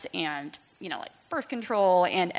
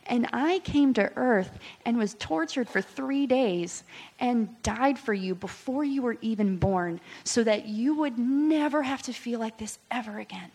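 a little higher and gentler; tender voice of God; 4 semitones higher than usual. Retold or imitated. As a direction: speak as a loving father would. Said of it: "He's like".

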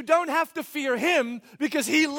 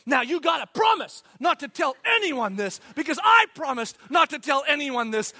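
loud, eager secret-spilling; a friend who can't keep a secret; excited gossip; 7 dB louder than usual. Retold or imitated. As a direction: blurt it out like juicy gossip.

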